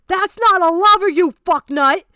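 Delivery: furious shout. Real, not acted. Angry rant at chat.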